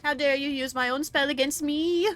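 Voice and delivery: high, loud indignant villain voice; outraged villain. Acted. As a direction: play the offended villain. Voicing outraged enemy in game.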